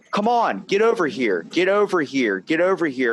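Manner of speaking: a retold customer snapping to hurry the clerk; impatient customer. Impatient customer voiced in story.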